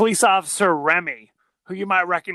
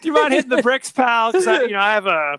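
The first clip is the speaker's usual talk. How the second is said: a lightly voiced, higher, louder, mock-impatient brush-off; brush-off president; 4 semitones higher, 4 dB louder, faster than usual. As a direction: shoo him away like a busy big shot, hammed up a little.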